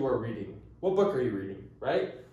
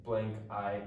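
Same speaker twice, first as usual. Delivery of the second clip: slow demonstration; 4 semitones lower, much slower than usual. Shown as a demonstration. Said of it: "if it's".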